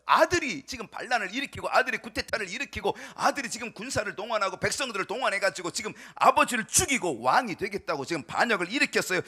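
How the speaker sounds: loud, urgent sermon narration; impassioned preaching. Acted. Preacher telling congregation of the son's rebellion, impassioned. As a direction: preach it at full force without letup.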